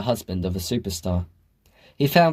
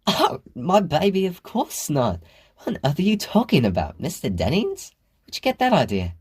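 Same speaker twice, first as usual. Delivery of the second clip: laughing; 8 semitones higher than usual. A narrator's reading. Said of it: "Chris exploded into a laugh".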